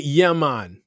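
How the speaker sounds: put-on Jamaican lilt, lightly done; fake Jamaican accent. Mocking actors who can fake it, fake Jamaican accent. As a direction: imitate a badly faked Jamaican accent. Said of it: "who can fake".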